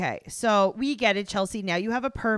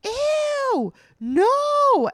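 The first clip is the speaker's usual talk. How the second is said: put-on grossed-out teen girl; 6 dB louder, much slower than usual. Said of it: "she was like".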